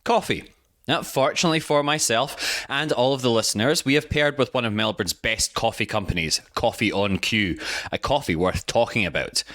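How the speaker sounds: upbeat sponsor read with spelled-out codes; podcast host reading a sponsor spot, bright ad voice. Acted. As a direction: sell the coffee deal to listeners. Host reads coffee sponsor ad.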